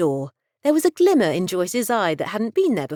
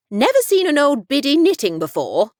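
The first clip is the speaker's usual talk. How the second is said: put-on higher, louder cheeky old lady; old woman voice; 8 semitones higher, 4 dB louder than usual. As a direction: tease like a sharp old biddy. Old woman teasing a visitor.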